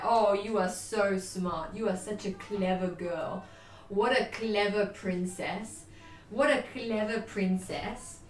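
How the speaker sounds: soft, slow doting praise; praising the dog. Real, not acted. Owner praises her clever dog, softly doting.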